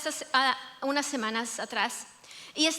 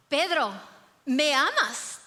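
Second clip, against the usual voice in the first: Pedro, ¿me amas? louder and more insistent; firmer third asking; 3 dB louder than usual. Acted. Jesus asking Peter the third time, firmer and louder. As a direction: press the question harder this time.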